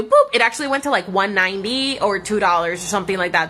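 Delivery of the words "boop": high boop. Acted. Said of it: "guess what twenty percent is gonna go do".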